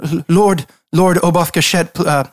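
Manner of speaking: mild nervous stammer; halting, unsure welcome, tripping over words. Acted. Guard welcomes the visiting lord, nervous. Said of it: "glances back at you nervously".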